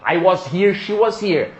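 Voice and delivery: "was" with open O and S; common learner "was". Shown as a demonstration. Teacher accepting the common version, "was" as "wos". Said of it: "tá tudo bem".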